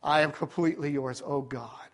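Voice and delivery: low, soft plea fading to very quiet; surrendering prayer. Retold or imitated. Believer giving self over to God, hushed fading surrender. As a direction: let the prayer sink to a hush.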